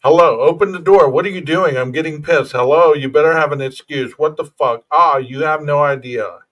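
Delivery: mock angry boyfriend banging on the door; impatient angry boyfriend. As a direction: read it like a fuming boyfriend locked out. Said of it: "Does that sound like a concerned boyf-, or fiance? Or does it sound like somebody who's not getting what he wants?".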